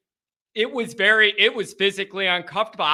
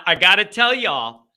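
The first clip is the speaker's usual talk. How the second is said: slipping into a Southern twang; Brian Kelly Southern accent. Real, not acted. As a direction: let a little Southern accent creep into y'all. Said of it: "I just had a little Brian Kelly in me".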